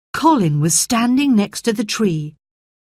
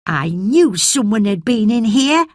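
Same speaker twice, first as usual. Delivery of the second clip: excited cry; 4 semitones higher than usual. Acted. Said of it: "cried Dickon".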